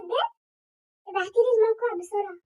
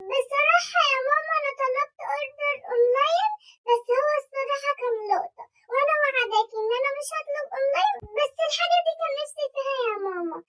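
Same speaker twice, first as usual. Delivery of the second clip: pleading whine; 4 semitones higher than usual. Acted. Pleading confession.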